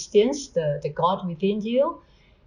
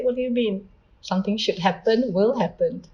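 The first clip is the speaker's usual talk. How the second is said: higher-pitched, mildly indignant objection; imitated challenge; 4 semitones higher than usual. People hit by bad events challenging the quote, imitated indignant challenge. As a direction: push back as a doubting listener, pitch lifted. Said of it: "I may be challenged".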